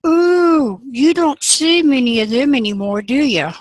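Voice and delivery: high, loud nervous squeak of alarm; startled frog backpedals, suddenly high and loud. Acted. Frog hides from the alligator, a loud, high startled squeak. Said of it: "And the wide-mouthed frog said".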